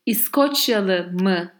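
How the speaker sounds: İskoçyalı mı with an open mı; Turkish question. Shown as a demonstration. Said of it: "imagine I'm asking".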